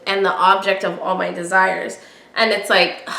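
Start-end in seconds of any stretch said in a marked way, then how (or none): 0.1-2.0 romantic quote reading. Shown as a demonstration. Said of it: "he continues that sentence with".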